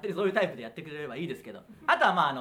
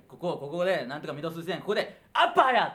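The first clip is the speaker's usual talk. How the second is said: imitated boxing-coach yell at the end; mock shout; 5 dB louder than usual. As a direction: build up, then yell the punchline. Retelling Moriwaki's shadowboxing bit.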